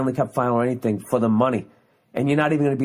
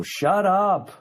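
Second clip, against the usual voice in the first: mock shushing fan; 9 semitones higher than usual. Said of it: "some English-speaking person would go".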